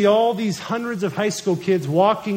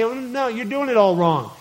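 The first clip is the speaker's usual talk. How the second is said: lightly mocking know-it-all, higher pitched; mock a meddler correcting a parent; disapproving society; 4 semitones higher than usual. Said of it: "Our society would say".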